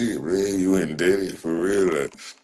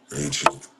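squeaky mock retreat; 10 semitones higher than usual. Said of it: "mock repeat of chat command".

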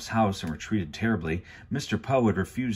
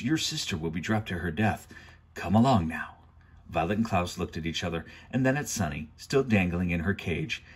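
steady storyteller reading a novel aloud; story narration. A narrator's reading. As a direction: read it like a chapter book at bedtime.

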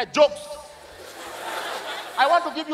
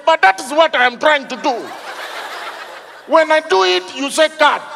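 high, raised-voice acted exasperation; getting angry; 4 semitones higher than usual. Auditioner protesting to judges who keep cutting him, acted exasperated anger. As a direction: protest to the judges with mounting mock frustration. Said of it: "Now he started getting angry".

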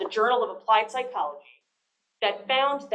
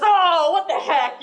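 louder, slower, laughing; laughing give-in; 7 semitones higher, 8 dB louder, slower than usual. Retold or imitated. Camp head giving in, laughing it off. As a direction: throw up your hands with a laugh. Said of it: "then he says".

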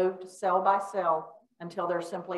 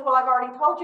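mock annoyed; 4 semitones higher, 6 dB louder, much faster than usual. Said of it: "why she's mad at me".

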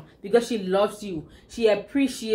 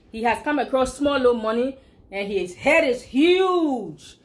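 slow Liberian English saying; drawn-out Liberian English, leaning on huge; a touch of Liberian English proverb; 3 semitones higher, slower than usual. Shown as a demonstration. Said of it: "real Liberian English".

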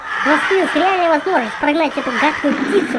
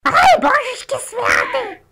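frightened cry; 9 semitones higher, slower than usual. Acted. Hit by explosion.

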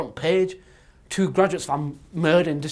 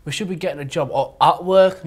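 raised voice; 9 dB louder than usual. Acted. Worried graduate scolds friend.

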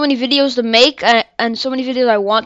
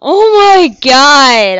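drawn-out groan; 5 dB louder, much slower than usual. Real, not acted. Frustration after death.

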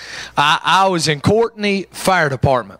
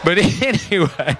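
mock raspy. Shown as a demonstration. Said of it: "Miss Stephanie talks like this".

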